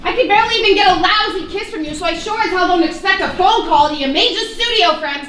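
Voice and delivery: high, heated retort to her father; angry outburst. Acted. Daughter lashing out at her estranged father, angry. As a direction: fire it back at him, pitch up.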